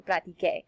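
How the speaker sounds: "practiqué" with a k sound; "practiqué", the k sound kept before the final é; correct hard c. Shown as a demonstration. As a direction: say "practiqué" ending in a hard "kay". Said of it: "If I didn't".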